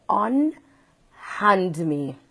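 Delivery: slow, drawn-out unhand me; haughty command. Retold or imitated. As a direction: say unhand me very slowly, with dignity. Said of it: "I did turn to her and I said".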